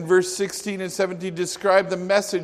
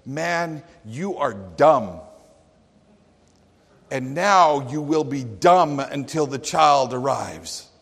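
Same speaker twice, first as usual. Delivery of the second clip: modern paraphrase; 3 semitones lower than usual. Acted. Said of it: "my modern translation says".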